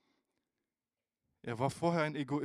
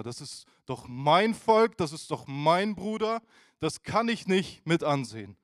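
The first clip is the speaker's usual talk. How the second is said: indignant protest; 3 semitones higher, 8 dB louder than usual. Retold or imitated. Moses quoted again, indignant.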